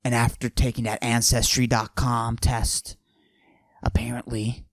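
macho voice pushed down, held the whole bit; forced deep voice. Acted. Comic bragging to the audience in a forced deep voice. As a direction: fake a deep tough-guy voice. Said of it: "I deepen my voice like this".

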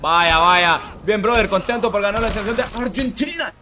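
voz más alta y fuerte, actuada; voz de personaje. Pretend. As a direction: lee el mensaje como otro personaje. Lee donación con otra voz. (lee una donación con voz actuada)

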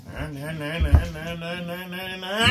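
mock engine hum for a toy; droning na-na motor noise; engine idling sound. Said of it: "shoot it like a rocket ship".

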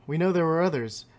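a hint of ancient, pleased beings; slightly grand creature voice, savoring the pelts; lightly voiced pelt-hungry creatures. Creatures greeting the trapper who brings pelts, lightly grand. Voices game scribes' text.

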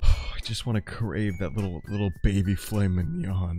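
a hint of a ravenous monster; mock hungry monster. Gamer doing a light impression of a child-eating monster. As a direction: croon it like a hungry beast craving a snack. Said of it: "my impression of eating a child".

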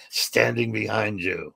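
slow, eerie ghostly answer; lightly voiced creepy ghost; imitated ghost. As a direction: draw it out like a spirit on tape.

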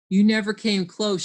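mild read-aloud shout. Acted. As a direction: argue back loudly. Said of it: "shouted Alf".

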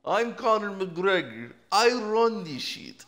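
slow cocky fighter voice; Conor McGregor. Pretend. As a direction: drawl it like a brash fighter. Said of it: "I don't know if it's an Italian".

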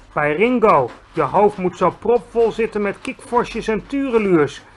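put-on a giant scolding a silly girl; exasperated giant. Giant lecturing Sophie about bubbles, exasperated.

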